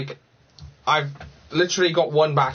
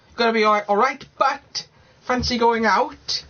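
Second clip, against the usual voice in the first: higher, sing-song Welsh accent demo; 10 semitones higher than usual. Shown as a demonstration. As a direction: show how a proper Welsh lad sounds, pitched up. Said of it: "that's what you gotta sound like".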